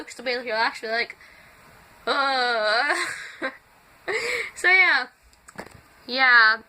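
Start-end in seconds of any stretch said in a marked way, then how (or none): 2.1-3.0 drawn-out relaxed "uh"; low waking groan. Shown as a demonstration. Vlogger trying out their waking-up voice, relaxed groan. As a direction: attempt a morning-voice groan. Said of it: "it's gonna be super low".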